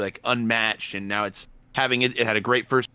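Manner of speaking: breaking up on a bad connection; cutting in and out; choppy cut off endings. Real, not acted. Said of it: "you're cutting out a little bit".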